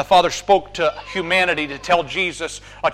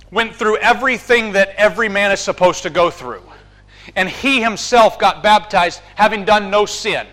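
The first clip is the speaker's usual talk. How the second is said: rising, louder sermon climax; full-force preaching; 3 semitones higher, 4 dB louder than usual. Acted. Preacher urging the congregation, climactic, impassioned preaching.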